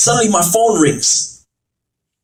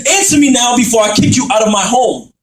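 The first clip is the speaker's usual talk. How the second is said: shouted demand. Acted. Demand then repeated quieter.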